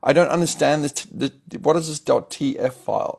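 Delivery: whiny confused developer. Retold or imitated. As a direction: whine it like a lost newbie. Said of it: "make a whiny voice when you emulate".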